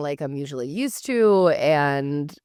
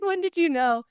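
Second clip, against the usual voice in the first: nervous; 13 semitones higher than usual. Retold or imitated. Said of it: "'Cause I was so nervous".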